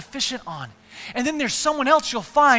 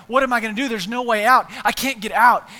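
louder, panicky pleading from the bottom of a hole; desperate cry; 2 semitones higher, 9 dB louder than usual. Acted. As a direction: call out stuck and scared. Man stuck in hole despairs.

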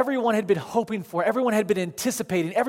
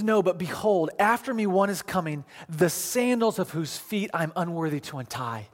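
low, hushed reading; solemn scripture reading; 4 semitones lower, 4 dB quieter than usual. Acted. John declaring himself unworthy of the one coming, solemn reading. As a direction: read it out humbly, letting it sink. Reads John's words from scripture.

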